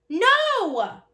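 sudden loud panicked scream. Acted. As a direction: shout it out in panic. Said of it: "I practically screamed it".

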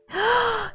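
high sharp intake of breath; shocked gasp. Real, not acted. Player realizes they sold needed items, shocked gasp. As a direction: gasp in sudden dismay.

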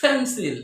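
"পেন্সিল" with a puffed p; aspirated P. Shown as a demonstration. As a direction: push air out on the p of "পেন্সিল". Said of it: "এইভাবে উচ্চারণ করতে হবে".

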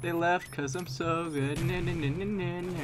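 gloating singsong. Real, not acted. Taunting after enemies quit.

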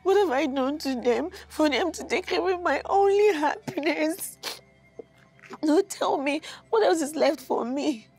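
tearful, pleading lament; weeping complaint to a friend; crying. Acted. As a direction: ask why through tears. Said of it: "Please, stop crying".

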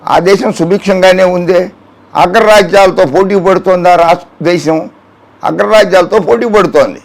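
usual speaking voice

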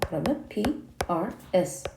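slow spelled sounds P-R-S; spelled out slowly. Shown as a demonstration. Teacher breaking down the word for students, slow letter-by-letter. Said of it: "you are 읽으실 수 있습니다".

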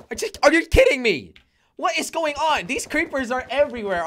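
can't believe what just happened; real exasperation at the screen; exasperated disbelief. Real, not acted. Exasperated at exploding creepers.

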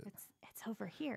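very soft, hushed call; still small voice. Retold or imitated. Co-host repeats God's gentle call, still small voice. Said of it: "It was that still small voice".

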